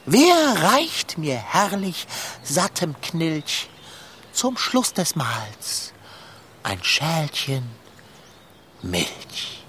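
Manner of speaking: solemn, pompous recitation with long pauses; poem recital. Acted. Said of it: "Sag dein bestes, anrührendstes Gedicht auf". (feierlich und pathetisch vorgetragen)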